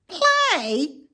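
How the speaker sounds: high, disdainful single word; scornful rat. Acted. Templeton scoffing at Wilbur, high and disdainful. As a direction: sneer at the idea. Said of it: "said Templeton".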